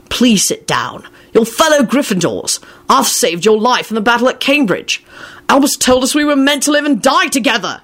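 pleading, pitch climbing into a cry; frenetic. A narrator's reading. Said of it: "he shouted frenetically".

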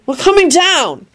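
high, slow reluctant call; drawn-out high holler; shouting. A narrator's reading. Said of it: "Harry shouted".

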